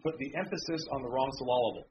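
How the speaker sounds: "emphasis" and "syllable" each stressed on the second syllable; joking em-PHA-sis on the wrong syl-LA-ble; misplaced stress joke. Pretend. Preacher joking to congregation, stressing "emphasis" and "syllable" wrongly. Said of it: "They put the emphasis in the wrong place".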